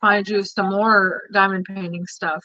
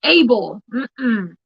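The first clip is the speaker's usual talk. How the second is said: scolding; 3 semitones higher, much slower than usual. Real, not acted. Mother scolds child for swearing.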